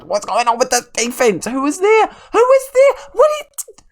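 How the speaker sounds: a shrieking, exasperated cry; furious yelling. Real, not acted. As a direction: scream at the defense in real disbelief. Yelling at his useless defense.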